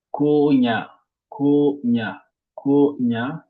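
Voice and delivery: Konya with a long, stressed "Ko"; teacher's demo of Konya, "Ko" held and weighted; first-syllable stress. Shown as a demonstration. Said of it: "porte un accent sur la première".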